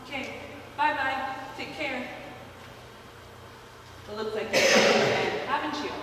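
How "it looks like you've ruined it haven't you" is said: cold whispered reproach. Acted. Turns on son after date leaves.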